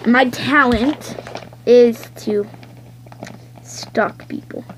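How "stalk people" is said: unvoiced creepy whisper. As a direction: breathe it like a stalker.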